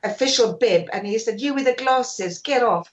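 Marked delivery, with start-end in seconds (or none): 1.4-2.9 retold stern order, higher pitch; Brian Clough. Manager ordering photographer off the pitch, lightly acted stern order. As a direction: imitate a mild command. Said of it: "Brian Clough ordered me off the pitch".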